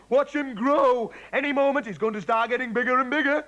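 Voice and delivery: high, eager and rushing; can't wait to see it grow; gleeful high-pitched anticipation. Acted. Mister Cranky eagerly awaits cockerel growth.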